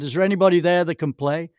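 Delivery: imitating a gruff call over the tee; mild mock shout. Big shot calling across to caddies, mild mock shout. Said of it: "he shouted over".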